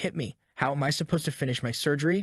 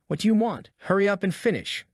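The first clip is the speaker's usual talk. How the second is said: sharp, raised, impatient; impatient demand; 4 semitones higher than usual. Acted. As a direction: push him to hurry up, annoyed. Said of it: "he demands".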